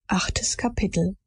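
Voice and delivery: whispered chapter title. A narrator's reading. Narrator announcing new chapter, whispered.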